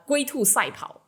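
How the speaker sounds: slowly says 龟兔赛跑 in Mandarin Chinese; Mandarin phrase. Real, not acted. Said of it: "my Chinese".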